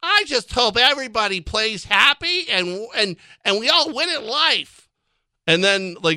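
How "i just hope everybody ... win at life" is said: mocking high-pitched nerd voice, very slow and drawn-out. Mocking two people as sounding like nerds, in a mocking nerdy voice. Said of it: "Because you both sound like nerds".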